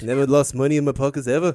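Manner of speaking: put-on Liverpool accent. Asked in this accent about having lunch money taken, answer in a Liverpool accent. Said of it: "Is that my Liverpool accent?".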